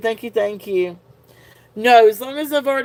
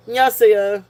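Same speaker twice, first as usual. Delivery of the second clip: Korean greeting; much faster than usual. Shown as a demonstration. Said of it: "I'll just answer and y'all say".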